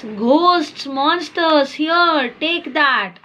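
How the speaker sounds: a touch of a frightened cry; mock scream. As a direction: voice Sam's scared shout, lightly. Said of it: "Sam screams".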